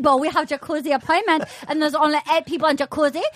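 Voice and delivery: lightly imitated German accent, earnest explaining; a hint of a stiff German guy justifying himself; German accent impression. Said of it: "he's like".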